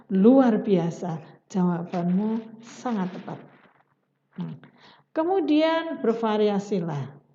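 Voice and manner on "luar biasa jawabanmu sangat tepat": teacher models prompt praise; enthusiastic praise. Shown as a demonstration. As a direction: praise a correct answer warmly. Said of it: "Kalau dia menjawab betul misalkan".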